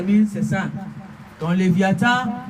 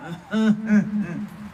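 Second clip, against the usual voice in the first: chuckle; 4 dB quieter than usual. Real, not acted. Preacher laughs after his hallelujah.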